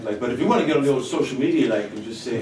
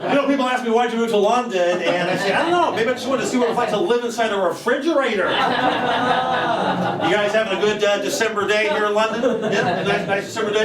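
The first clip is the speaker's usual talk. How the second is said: higher, brash stand-up weather report; smart-assed American comedian; 7 semitones higher than usual. Acted. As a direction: sell every joke like a cocky comic. Comedian doing a weather segment.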